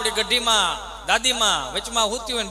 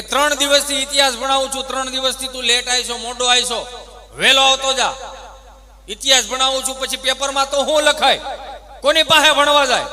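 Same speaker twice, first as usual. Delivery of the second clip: loud, higher teacher's rant; scolding teacher; 5 semitones higher, 9 dB louder than usual. Retold or imitated. Teacher scolding the pupil for coming late, loud and higher. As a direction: tell the boy off in a raised voice.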